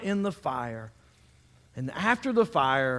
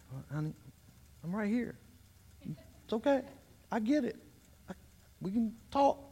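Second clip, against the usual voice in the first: much softer, gentle calming; calm dad at a three; 5 semitones higher, 6 dB quieter, faster than usual. Retold or imitated. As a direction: bring her down softly. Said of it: "when all they really need is a three".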